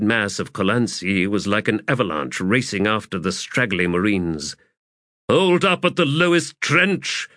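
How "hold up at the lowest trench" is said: high, urgent plea; pleading. A narrator's reading. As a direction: plead with them to stop, pitch raised. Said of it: "Ericala pleaded".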